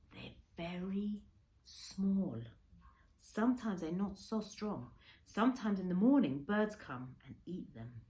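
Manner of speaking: a lightly voiced old man, slow and caring; Kensuke, gentle. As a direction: tell of the little turtles slowly, in a hint of Kensuke's voice. Kensuke kneels by the turtles.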